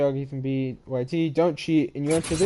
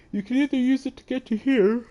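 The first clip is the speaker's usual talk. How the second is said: talking through a real yawn, much higher pitch; 10 semitones higher than usual. Real, not acted. Game player guiding viewers through the map, yawning. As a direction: push the words out through a rising yawn. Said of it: "I don't know why I'm yawning so much".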